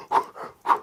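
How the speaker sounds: puffing breaths of a runner; mock panting. Boy fleeing from his dad, imitated panting. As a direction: puff out breaths as if running hard.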